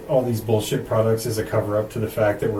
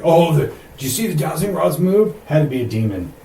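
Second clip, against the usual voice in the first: hammed-up louder, higher spooked voice; mock ghost hunter; 6 semitones higher, 5 dB louder than usual. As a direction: play a gullible ghost hunter. Mocking gullible ghost hunters.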